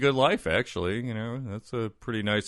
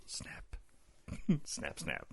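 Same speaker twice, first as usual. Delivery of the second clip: mock alligator snap; 5 semitones lower, 11 dB quieter, much slower than usual. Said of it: "those are noises he made".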